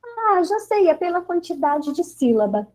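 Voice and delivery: high-pitched onset, lightly voiced child; imitating clever pupil. Clever pupil answering the teacher, lightly imitated sudden realisation. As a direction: jump up in pitch as a child who's got it. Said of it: "os mais espertinhos, né, que falaram assim".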